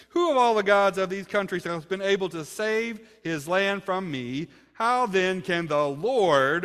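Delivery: loud, taunting preacher's read of the commander; commander's boast. Acted. Assyrian commander taunting Jerusalem's people, loud and scornful. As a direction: hurl the challenge across the wall.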